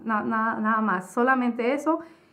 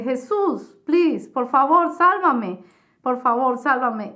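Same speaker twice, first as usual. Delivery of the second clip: desperate plea; 4 dB louder, slower than usual. Retold or imitated. In hell, pleading with Jesus for rescue, desperate cry. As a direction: beg Jesus to save you, slow on please.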